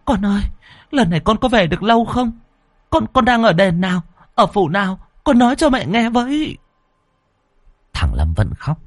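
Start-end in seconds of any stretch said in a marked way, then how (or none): 0.1-6.6 high, eager stream of questions; a mother pressing her dead son for answers; anxious pleading mother. Acted. (giọng mẹ sốt sắng hỏi dồn, cao giọng)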